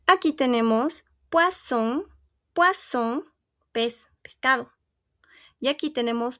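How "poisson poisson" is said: "poisson" as pwa-SON, with voiceless s; French "poisson", double S unvoiced; normal S. Shown as a demonstration. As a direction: say "poisson" with a clear hissed s in the middle. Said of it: "va a sonar a una S normal".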